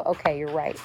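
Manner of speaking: soft, low, meek agreement. Retold or imitated. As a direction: give in quietly. Meekly giving in to daughter.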